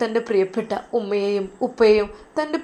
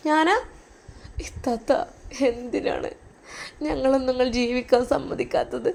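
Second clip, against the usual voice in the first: tearful pleading; 5 semitones higher than usual. Acted. Sister weeps to sister-in-law.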